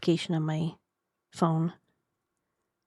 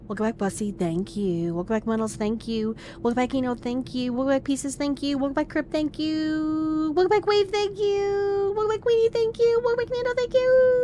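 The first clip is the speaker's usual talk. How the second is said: playfully climbing pitch; 7 semitones higher than usual. Pretend. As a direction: start in a normal voice, climb steadily to a squeal. Greeting viewers, climbing higher each time.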